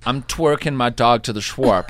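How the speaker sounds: exaggerated New York W vowels; hammed-up New York rounded vowels; New York accent. Host copying caller's trick, New York accent. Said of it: "put a W in front of your vowels".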